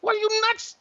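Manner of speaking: a father hamming up panic as his daughter drives; mock panic. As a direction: squeal in comic alarm at the crash. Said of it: "I'm in her ear".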